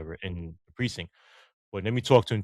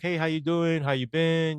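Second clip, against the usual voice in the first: retold friendly greeting; 6 semitones higher than usual.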